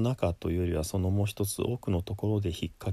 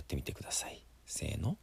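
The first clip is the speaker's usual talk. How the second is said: soft cue; 9 dB quieter, much faster than usual. Real, not acted. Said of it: "やってみてください".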